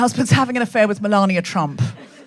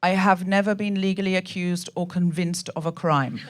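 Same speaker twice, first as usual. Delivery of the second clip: lower, lightly imitated prepared statement; Melania Trump; 4 semitones lower, 3 dB quieter than usual. First lady misreading her speech, lightly imitated solemn statement. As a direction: read it out evenly, a hint of the first lady. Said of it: "But instead she said".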